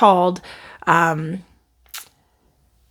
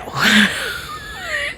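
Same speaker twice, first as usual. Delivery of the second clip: high laughing shriek; 3 dB quieter than usual. Real, not acted. Laughs at her own answer.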